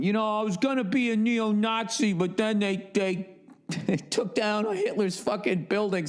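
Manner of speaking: mock disappointed wannabe. Wannabe neo-Nazi voiced in bit.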